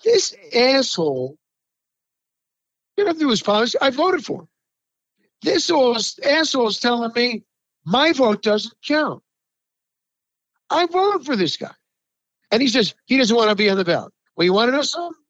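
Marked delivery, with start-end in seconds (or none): 0.0-11.7 raised, outraged imagined voter; mock the voter's disbelief, pitch climbing; a voter fuming at his own choice; indignant voter quote. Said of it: "how about looking yourself in the mirror and saying".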